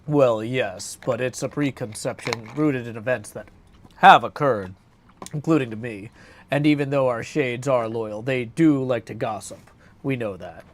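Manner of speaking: courteous warrior voice with a touch of awkwardness; Odysseus voice. Acted. Odysseus replies.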